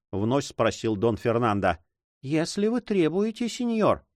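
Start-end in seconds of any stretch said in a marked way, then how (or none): 2.2-4.1 higher-voiced reluctant girl; sulky young girl. A narrator's reading. Girl reluctantly yielding to her guardian, higher voice. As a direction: give in grudgingly, voice pitched up.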